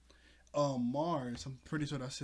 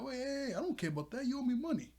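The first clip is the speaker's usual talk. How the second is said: high-pitched pirate yelling about his money; mock-shrill pirate; angry pirate debtor; 10 semitones higher, faster than usual. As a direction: squeak out a demand to be paid back. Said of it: "This other guy's like".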